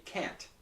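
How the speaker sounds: "can't" ending on a crisp released T; tongue on the gums for the T of "can't"; clear T in can't. Shown as a demonstration. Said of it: "Here it's a clear T".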